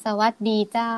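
long-drawn Northern Thai lilt, rising on เจ้า; Northern Thai accent. Shown as a demonstration. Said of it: "ต้องพูดยาวๆลากเสียงยาวๆ".

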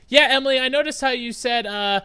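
sarcastic impression of a keen student; mock classmate. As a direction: parody an eager student sucking up. Mocking a classmate's shallow comment.

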